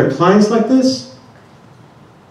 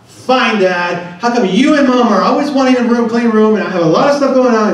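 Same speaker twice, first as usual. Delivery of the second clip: higher-pitched mock daughter's protest; retold yelling back; 5 semitones higher than usual. Daughter answering dad about her room, mock yelling back. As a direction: imitate a kid yelling back at dad, fast by the end. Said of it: "she just yells back".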